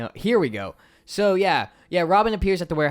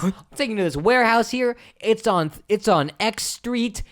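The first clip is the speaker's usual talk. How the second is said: higher, rushing henchman voice; mock goon; 7 semitones higher than usual. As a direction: blurt out the directions fast and high. Goon giving directions, acted.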